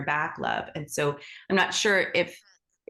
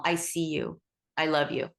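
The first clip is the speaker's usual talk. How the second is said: soft, tender words to a scared animal; gentle reassurance; 3 semitones lower, 3 dB quieter than usual. Shown as a demonstration. Teacher demonstrating soothing words to a frightened animal, softly. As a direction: say it softly, like calming a frightened stranger's pet. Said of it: "you can say to that animal".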